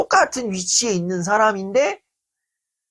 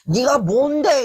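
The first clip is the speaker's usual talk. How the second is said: angry challenge; 5 semitones higher, slower than usual. Retold or imitated. Friend provoking the speaker in a quarrel, slow angry jab. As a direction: throw it down like a dare. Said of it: "뚜껑이 이게 딱 열렸는지".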